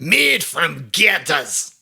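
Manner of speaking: each word drawn out slowly; slow, clear slogan. Shown as a demonstration. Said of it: "What is it?".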